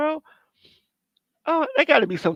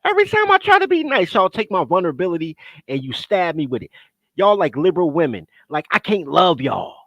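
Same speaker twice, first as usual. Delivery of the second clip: mock wounded rant. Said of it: "I'm like".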